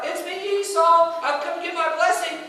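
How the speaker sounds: disguised voice. Retold or imitated. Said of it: "he tries to disguise his voice".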